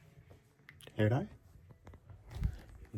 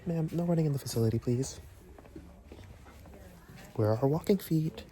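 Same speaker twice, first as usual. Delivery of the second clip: higher, prim mock-employee scolding; lightly voiced teacher telling kids off; strict staff voice; 3 semitones higher than usual.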